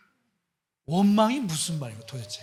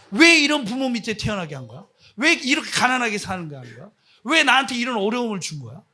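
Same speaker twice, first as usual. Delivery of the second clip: loud, acted protest against God; resentful complaint; 2 semitones higher, 6 dB louder than usual. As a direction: cry out each "why" like an aggrieved victim. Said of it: "거기서 하나님을 원망하는 거예요".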